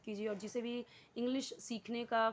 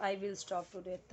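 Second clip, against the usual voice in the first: slow dictation; 2 semitones lower, much slower than usual. Shown as a demonstration. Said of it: "था यहाँ पे, अच्छा".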